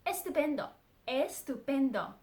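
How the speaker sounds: bright, eager exclamation; excited Spanish "estupendo"; enthusiastic. Shown as a demonstration. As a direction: sell how fantastic it is. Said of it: "really enthusiastic about something".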